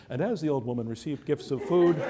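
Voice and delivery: smooth TV news read; mock report delivery; newsman voice. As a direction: read it like an evening news anchor. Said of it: "in my newsman voice".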